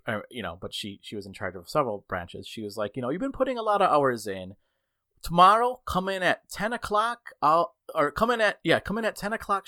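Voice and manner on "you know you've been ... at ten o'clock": higher-pitched imitation of a manager; lightly voiced boss making an offer; breezy manager quote. Regional manager tells a worker to come in late, breezy.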